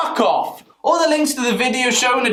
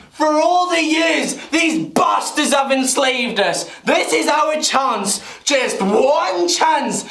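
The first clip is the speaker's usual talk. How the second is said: mock rallying speech; 4 semitones higher than usual. Voicing sheep's rallying war speech.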